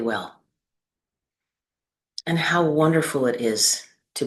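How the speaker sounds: unhurried guiding voice with long pauses between phrases; measured, spacious meditation delivery; guided meditation. Acted. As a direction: lead them gently through the body, leaving space after each phrase. Leads a seated meditation.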